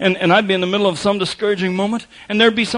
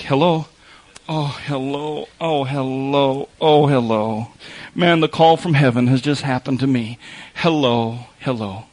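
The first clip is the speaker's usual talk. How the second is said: relieved phone greeting; 3 semitones lower, slower than usual. Retold or imitated. Voicing a lonely person answering phone.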